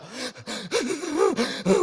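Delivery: mock heaving sobs, high and soft; imitated child's sobbing. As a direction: imitate a small child bawling breathlessly. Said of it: "얼마나 꺼이꺼이 우는지".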